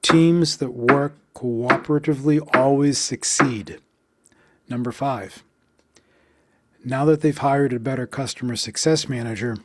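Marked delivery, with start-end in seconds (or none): 0.0-3.8 Teams, work, always, succeed on strong beats; steady beat delivery; counted stress beats. Shown as a demonstration. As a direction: pulse the stressed words. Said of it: "One more time".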